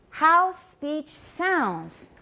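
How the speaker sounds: "how speech sounds" slowly, SPEECH stressed. Shown as a demonstration. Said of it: "It's how speech sounds".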